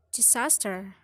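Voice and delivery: "disaster" with SAS stressed; middle-syllable stress. Shown as a demonstration. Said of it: "middle syllable will be stressed".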